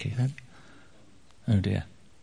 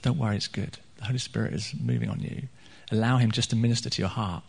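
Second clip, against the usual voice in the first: gentle reassurance; 2 semitones lower, 5 dB quieter than usual. Retold or imitated. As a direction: quietly reassure someone in tears. Retells reassuring a weeping man.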